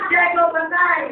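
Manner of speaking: effeminate. Acted. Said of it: "Ba't naman naging bading kayo?". (pabading, mataas ang boses)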